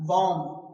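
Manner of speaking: बॉम्ब as "bom", ending on M; बॉम्ब closed on the M; silent B. Shown as a demonstration. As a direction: leave the final B off बॉम्ब. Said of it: "तो यहाँ बी silent है".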